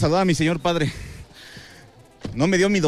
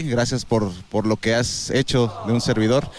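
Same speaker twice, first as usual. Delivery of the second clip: near tears; 5 semitones lower than usual. Real, not acted. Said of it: "No sigas que voy a llorar".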